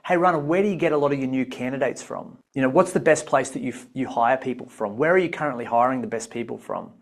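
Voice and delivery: relaxed, quick everyday question; casual natural version. Retold or imitated. At an event Dave asks Rana casually, fast and relaxed. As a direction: ask it like you would really talk. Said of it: "Dave would probably say".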